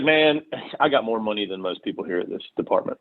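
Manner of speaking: a hint of cocky bragging, retold; cocky guy. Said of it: "he's just trying to act all cocky".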